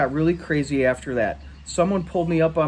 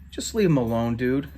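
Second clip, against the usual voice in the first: calm. Acted. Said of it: "Amos replied calmly".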